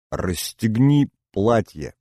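slow, sharp order; sharp command. Acted. Misha orders Inna to undress, sharp command. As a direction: snap out a curt order. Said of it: "резко скомандовал я".

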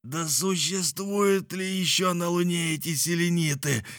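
high, irritated challenge; growled challenge. A narrator's reading. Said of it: "зарычал Николь". (раздражённо рыча)

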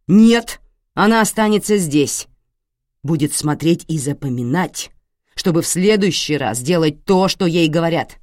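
loud, cold command of a raging father; angry order. Acted. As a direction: lay down the law with menace. Father refusing, shouting.

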